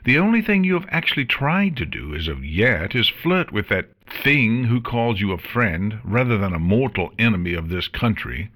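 cold, scornful queen; regal queen voice. Acted. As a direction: lecture her with disdain. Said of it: "returned swiftly".

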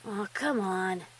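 lightly voiced brother, low and slow; coaxing big brother. Brother coaxing his sister.

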